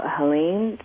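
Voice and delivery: Boston vowel in cack; Boston accent. Retold or imitated. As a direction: say it like a Boston girl. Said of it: "That's how Boston girls say".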